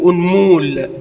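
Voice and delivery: أنمول said as a mistaken unmul, long u; أنمول pronounced like أصبوع, as the incorrect form; wrong form. Shown as a demonstration. Teacher showing students the form not to say. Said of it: "ولا تقول".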